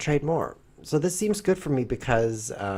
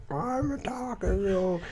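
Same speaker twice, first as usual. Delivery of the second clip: mock aggressive; 9 semitones higher, slower than usual. White piece voiced attacking.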